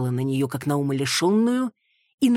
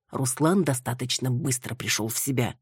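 plain reading voice

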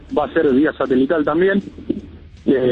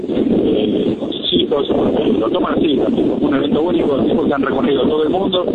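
breaking up over wind on the phone; windy phone line. Real, not acted. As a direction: voice lost in wind noise. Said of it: "no se te escucha nada".

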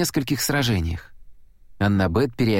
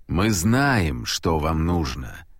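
lower, slow, otherworldly male voice; interrupting god voice; 6 semitones lower, much slower than usual. A narrator's reading. God interrupting Percy, low and slow. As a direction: cut in, cold and weighty. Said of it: "перебил мужской голос".

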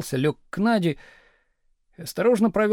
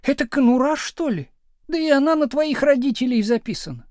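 higher, louder scornful jab; scornful wife; 9 semitones higher, 5 dB louder than usual. A narrator's reading. Wife scorning husband's flat, high and loud. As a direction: sneer at the flat.

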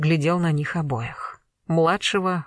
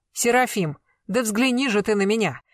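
pleading cry; 3 semitones higher than usual. Acted. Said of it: "Не кричите".

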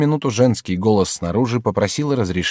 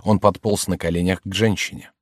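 plain reading voice

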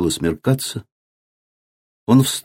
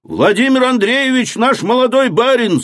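much higher excited cry; voice from the crowd. A narrator's reading. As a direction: call out from the crowd. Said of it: "сказал голос из толпы".

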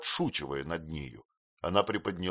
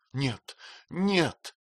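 tearful cry; 7 semitones higher than usual. Acted. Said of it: "крикнула Эмилия".

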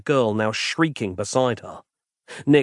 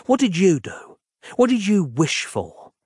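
stern, raised questioning; 6 semitones higher than usual. Acted. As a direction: press the boy hard. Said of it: "staring sternly at the boy".

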